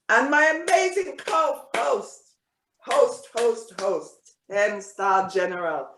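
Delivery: hyped-up intro. Real, not acted. Hyping up his co-host.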